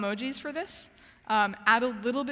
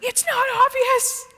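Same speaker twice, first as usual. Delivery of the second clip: high, very loud drawn-out yell; shouted at computer; 14 semitones higher, 11 dB louder, slower than usual. Retold or imitated. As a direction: yell it in exasperation, dragging the words out. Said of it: "I actually shouted at my computer".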